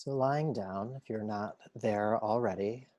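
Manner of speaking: unhurried meditation guide voice; calm, measured yoga teacher guidance; guided relaxation. Acted. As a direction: lead them gently into rest, leaving long pauses.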